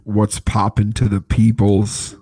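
slow, limp, low-energy greeting; lifeless greeting. Real, not acted. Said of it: "that was so dookie".

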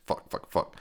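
hushed, voiceless mock cursing; whispered panic. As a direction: whisper it as her curse under the breath. Retold panic, locked in basement.

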